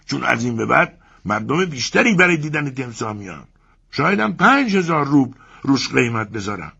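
haggle, refusing to sell; German owner cutting in to raise his price. Acted. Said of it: "مرد آلمانی وسط حرفم دوید و گفت".

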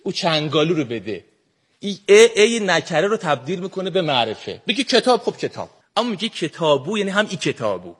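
put-on Shirazi accent. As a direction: speak like a laid-back man from Shiraz. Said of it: "سعی کردم امروز با لهجهٔ شیرازی صحبت کنم". (لهجهٔ شیرازی شل و کشیده)

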